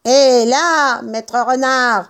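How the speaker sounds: interpellation criée, voix timbrée; vocifération. A narrator's reading. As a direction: call out roughly to an enemy. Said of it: "vociférait Buns". (vociférer)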